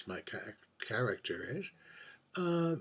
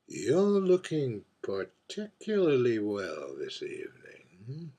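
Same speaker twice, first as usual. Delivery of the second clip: arch, world-weary drag queen holding court at a bar; lightly voiced aging diva, wry and wistful over her gin; mature drag queen. A mature drag queen at the bar confides in the invisible bartender, arch and wistful.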